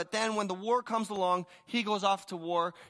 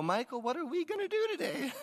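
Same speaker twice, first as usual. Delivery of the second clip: mock self-talk; 9 semitones higher than usual. Mocking his own morning question.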